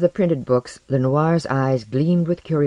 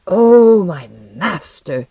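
high, loud OH falling away; fervent cry; 4 semitones higher, 9 dB louder, much slower than usual. A narrator's reading. Alchemist returning to his new master, fervent cry. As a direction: cry out in reverence, then drop off. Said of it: "he cried".

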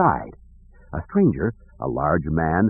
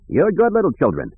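put-on high-pitched praise for children; fond old king; 9 semitones higher than usual. Dakim pats Jason and Jaina, fond praise. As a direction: praise them in a lifted, fond voice.

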